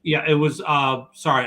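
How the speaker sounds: talking while eating; mouth full. Real, not acted. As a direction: speak through a mouthful of food. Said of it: "I'm eating and talking at the same time".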